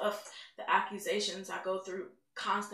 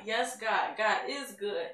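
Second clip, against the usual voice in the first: joyful praise; 5 dB louder, slower than usual. Retold or imitated. Praising after the healing.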